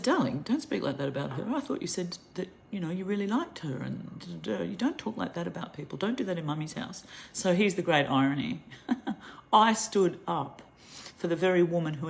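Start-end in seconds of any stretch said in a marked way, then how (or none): 0.0-7.0 put-on higher, softer mother's tone to her child; a light motherly correction; a hint of mild reproach to the daughter; gentle scolding. 9.5-10.6 slowed-down ironic punch; emphatic irony. Real, not acted.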